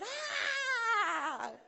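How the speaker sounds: long high fan squeal; hammed-up thrilled cheer; imitated excited scream. Imitating locals' delight at Neymar.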